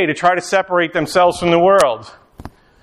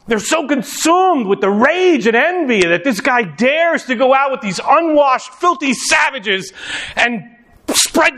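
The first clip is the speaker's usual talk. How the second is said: outraged preaching; 5 semitones higher than usual. Acted. Pharisees' rage voiced.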